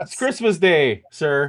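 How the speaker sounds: slow, deliberately bad Cockney accent. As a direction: drag out a clumsy Cockney reply to Scrooge. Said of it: "in my worst possible Cockney accent".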